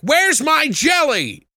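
high, loud, slow mock call; hammed-up high query; silly character voice. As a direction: drag it out like a goofy guy calling from the bathroom. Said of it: "he's like".

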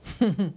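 a quick real laugh mid-story; short laugh. Real, not acted. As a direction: laugh at his own cheek. Laughs retelling pushy insistence.

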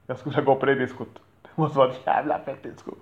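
excited fantasy. Pretend. Talking up a wild imagined disco with excitement. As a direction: hype up the dream disco.

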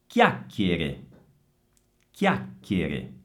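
low CHIACCHIERE with k sounds, held double C; hard C. Shown as a demonstration. Teacher models hard C for students, deliberate CHIACCHIERE. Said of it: "il suono dell'H rende duro il suono della C".

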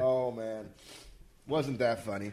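softly after coughing; hushed and low; quiet. Real, not acted.

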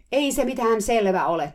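high, loud retold shriek; shrieking at full throat. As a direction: scream it back in protest. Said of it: "kiljui nyt kurkku suorana". (kurkku suorana kiljuen)

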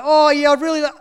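high, loud imitated old man reaching for words; patient trying to ask for tea; old man straining. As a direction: push to get the words out. Voicing stroke patient trying to ask.

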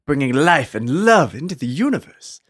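grand movie-trailer narration; epic fantasy narrator. Acted. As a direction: read it like an ancient legend. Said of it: "I faded in and out of, uh, an accent".

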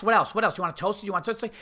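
rapid-fire repeated questions; mimicked pushy counter guy; retold rushing. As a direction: fire questions as if a queue is waiting. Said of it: "acting like there's a line outside".

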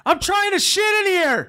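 very high, silly put-on voice; high mock voice interrupting the story; squeaky joke voice. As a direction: chirp it like a cartoon neighbor. Mock line from upstairs.

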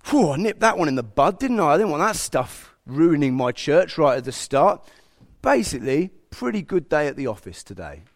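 God imagined as casually pleased with himself; mock self-satisfaction. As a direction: play it like smugly wrapping up a day's work. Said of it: "Did he finish that day and say".

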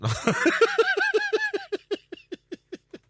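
big helpless laugh at own story. Real, not acted. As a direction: burst out laughing, high and long.

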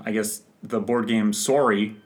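put-on light Canadian accent, long o in Sorry. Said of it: "my Canadian accent dropped".

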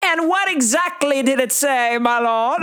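bow and scrape like a squire; mock squire. Joking redo for a friend as a high fawning squire. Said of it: "like the squire".

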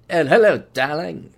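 a hint of an old-movie leading man; lightly hammed-up charming gent; lightly done Cary Grant. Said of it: "He sounds like Cary Grant".

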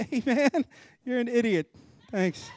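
mock blunt insult.

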